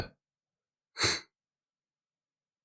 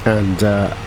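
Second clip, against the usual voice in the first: talking through a yawn; mid-yawn words. Real, not acted. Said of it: "sorry, I yawned".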